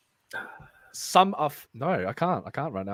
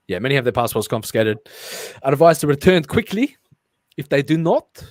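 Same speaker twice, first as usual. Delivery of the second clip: loud South African accent attempt; 3 semitones lower, 5 dB louder than usual. Reader channeling a film character, South African accent. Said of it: "channel that guy from District nine".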